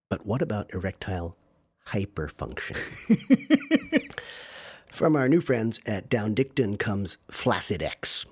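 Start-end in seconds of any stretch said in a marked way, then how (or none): 4.9-8.3 ad read. Acted. Fake sponsor ad read.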